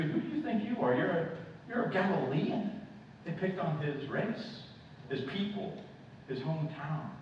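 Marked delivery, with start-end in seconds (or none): 0.0-2.8 high-pitched mocking challenge; scornful accusers. Preacher voicing those who shamed Christ, scornful. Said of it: "They spoke those same things to you".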